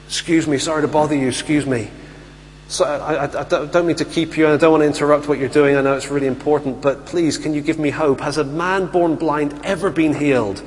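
apologetic pleading. Retold or imitated. Imagined blind man begging passing authorities.

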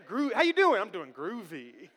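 lightly voiced groovy dude, laughing; seventies slang. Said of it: "words like groovy".

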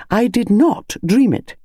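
slow, firm and insistent; no room for doubt, word by word; firmly. Acted. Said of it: "said Missus Bantry firmly".

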